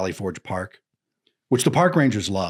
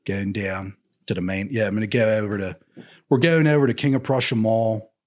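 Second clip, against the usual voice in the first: Philadelphia vowels with a surfer tinge; surferish Philly accent. Shown as a demonstration. Demonstrating local mall talk, surferish Philly accent. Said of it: "a little surferish sometimes".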